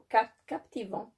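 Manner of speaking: real slip of the tongue on "captivant"; tongue-tied stumble. Real, not acted. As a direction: break off after "cap-", then say "captivant". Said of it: "pardon, j'ai du mal à parler".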